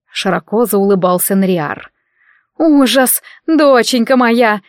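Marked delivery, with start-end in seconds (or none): 2.6-4.6 louder, higher, slow wail; mother lamenting her daughter; dramatic mother. Acted. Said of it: "моментально среагировала Нини".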